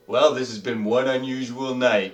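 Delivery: Bob's farewell. Acted. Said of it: "Bob says".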